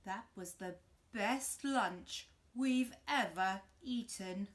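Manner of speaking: slow, loud wolf; slow satisfied wolf. Acted. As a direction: sigh it out contented. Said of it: "said the wolf".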